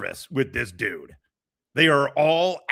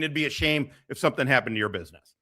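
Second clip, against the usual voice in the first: friendly threat; faster than usual. Retold or imitated. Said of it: "two dudes in a tracksuit being".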